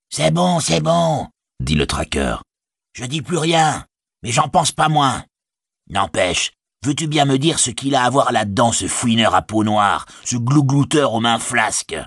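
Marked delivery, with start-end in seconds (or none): 2.9-12.0 raised, sneering orc grumble; grumbling orc tracker. Acted. Orc tracker griping to the soldier about the spy, sneering. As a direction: spit out contempt for the sneak.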